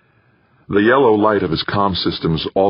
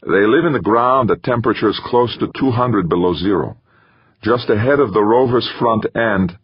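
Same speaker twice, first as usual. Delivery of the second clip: slightly raised voice, reporting over the radio; astronaut field report; 4 semitones higher than usual. Acted. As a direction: describe the alien ground to mission control. Astronaut describes Titan over radio.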